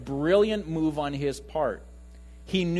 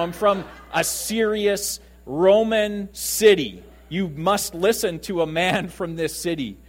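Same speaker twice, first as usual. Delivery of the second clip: slow, louder proud proclamation; slow emphatic boast of his serious city; proud declaration; 2 semitones higher, 5 dB louder than usual. Retold or imitated. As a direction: boom it out like a proud Roman citizen. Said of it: "You know".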